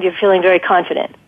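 quick, nervous delivery of a confident line; rushed, jittery suggestion that sounds anxious. Shown as a demonstration. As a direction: rush it as if unsure of yourself. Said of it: "my tone of voice is saying nervous".

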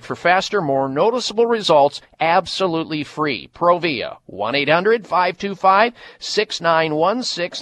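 upbeat ad read for a hair product; infomercial. Acted. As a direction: pitch it like a radio spot. Host reads hair-loss ad.

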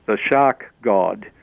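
The Shark God, each word slowed and weighted; slow emphatic title. Shown as a demonstration. Telling the book title, slowed for weight. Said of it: "shark, as in, you know, Finney".

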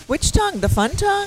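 surprised. Real, not acted. Startled by tongue remark.

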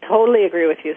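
words around a sip of tea; talking with tea in the mouth; while sipping a drink. Real, not acted. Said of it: "Sorry, I was taking a sip of tea".

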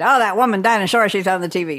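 lightly put-on disapproving grandmother; grandma's voice. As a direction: imitate grandma complaining about a TV star. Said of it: "She didn't talk like that".

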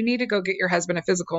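fast, firm, insistent warning; delivered stronger. Retold or imitated. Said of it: "you gotta deliver this stronger".

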